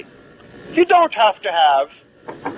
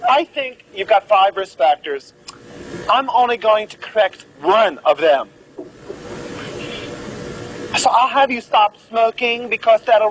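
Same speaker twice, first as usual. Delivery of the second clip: mock doctor; 3 semitones higher than usual. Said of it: "be like this".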